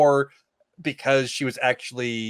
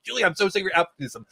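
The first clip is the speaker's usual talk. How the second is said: salty Noel; 5 semitones higher, faster than usual. Retold or imitated. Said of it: "Noel is so salty".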